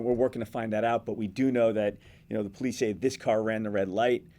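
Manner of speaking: demonstrating an on-scene live report; lightly put-on TV reporter delivery; live reporter stand-up. Shown as a demonstration. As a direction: report it live to camera, steadily. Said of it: "as far as reporting on it".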